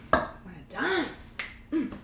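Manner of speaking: rally everyone to dance; host hyping the dance-off party, building to a shout. Real, not acted.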